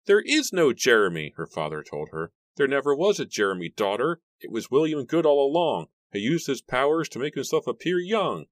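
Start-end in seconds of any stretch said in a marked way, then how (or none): 0.1-1.3 high, loud insistence; raised-voice fatherly contradiction; emphatic denial. A narrator's reading. Father breaks news to distraught daughter. 2.6-8.5 high, loud fatherly insistence; urgent, high-pitched declaiming; emphatic revelation. A narrator's reading. Father exposes the impostor to daughter.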